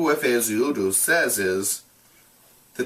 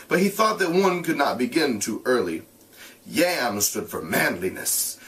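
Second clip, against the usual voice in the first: steady read-aloud voice; measured narration; story narration; 2 semitones higher than usual. A narrator's reading. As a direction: read the novel to the class. Reads novel aloud to class.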